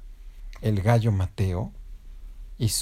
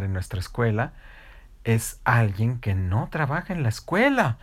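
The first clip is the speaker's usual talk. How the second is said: award announcer; 3 dB louder than usual. Acted. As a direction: build suspense like an award presenter. Announces teacher of the year award.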